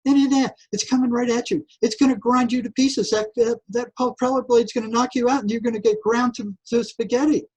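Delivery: mock the swimmer like a gleeful tormentor; taunting inner voice. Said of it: "here's this thing going".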